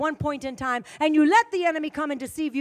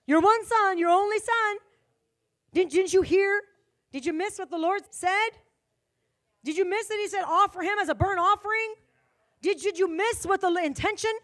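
incredulous questioning; 5 semitones higher than usual. Acted. Preacher presses the question.

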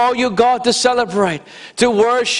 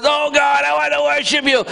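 raised praise voice; 7 semitones higher than usual. Retold or imitated. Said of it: "we want to raise our voice".

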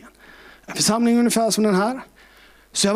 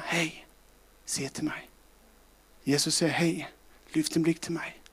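tender whisper of God; 5 dB quieter than usual. Acted. God's whisper quoted softly.

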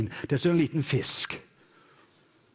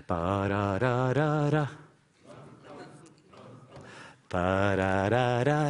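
drumming sound; 4 semitones lower, slower than usual. Shown as a demonstration. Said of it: "jeg vil du skal bare lage lyden".

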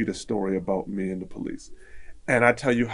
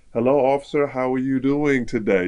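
brightly polite, slightly raised pitch; cheerful greeting; 3 semitones higher, 5 dB louder than usual. Retold or imitated. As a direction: greet the officer in your most cheerful voice. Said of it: "my most cheerful kind of a thing".

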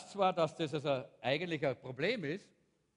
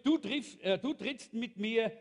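calling back; 2 semitones higher than usual. Retold or imitated. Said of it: "rief zurück".

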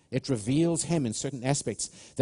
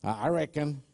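southern accent; 3 semitones higher than usual. Shown as a demonstration. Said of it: "try and do it with a southern accent".

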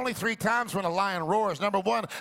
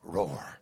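low roar; 13 semitones lower, 4 dB quieter than usual. Shown as a demonstration. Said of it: "the word Anaka means the roar of a lion".

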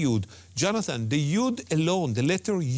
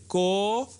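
Kodesh with a very long KO, then DESH; lingering accent on Kodesh; 4 semitones higher than usual. Shown as a demonstration. Teacher explaining the accent mark, first syllable of Kodesh held long. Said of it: "You just linger longer".

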